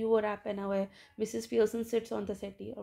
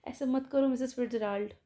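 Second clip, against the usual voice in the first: tearful pleading; 3 semitones higher than usual. Retold or imitated. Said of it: "कहती".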